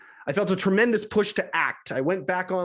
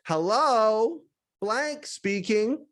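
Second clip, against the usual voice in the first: cheerful flamboyant man; 4 semitones higher, much slower than usual. Retold or imitated. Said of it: "He was cheerful and flamboyant".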